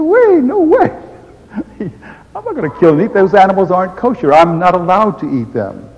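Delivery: high, loud shocked refusal; Peter protesting. Acted. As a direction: recoil like Peter at unclean food.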